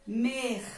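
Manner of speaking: "mer" alone, closing on a throaty R; final R sounded. Shown as a demonstration. Teacher isolating the last syllable, final R sounded. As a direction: let the R ring at the end of "mer". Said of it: "no final da sílaba".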